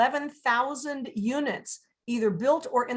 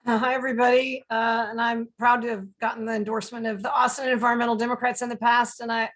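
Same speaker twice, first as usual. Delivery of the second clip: hoarse from allergies; rough, scratchy throat; gravelly voice. Real, not acted. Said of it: "excuse my gravelly voice".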